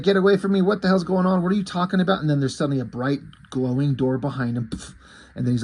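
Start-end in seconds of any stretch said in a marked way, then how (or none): 0.0-2.2 higher-pitched imitation of a rattled kid; mock alarm. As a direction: act out a kid's startled protest, not full panic. Retold frightened kid confronting intruder.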